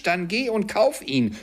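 high, eager command; excited order. A narrator's reading. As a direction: send the boy off in high excitement. Scrooge excitedly orders the boy. (aufgeregte Aufforderung)

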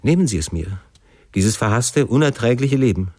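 understated despair, pitch lifting on key phrases; a touch of anguished entreaty; desperate plea. Acted. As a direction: plead as a desperate son, slowing at the close. Son begs father to end his life.

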